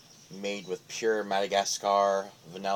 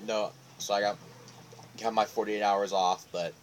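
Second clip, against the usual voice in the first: speaking with clenched pipe; talking around a pipe. Real, not acted. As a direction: pipe stem between lips. Seen 2: Pipe held in hand early; stem between lips from 6.6s.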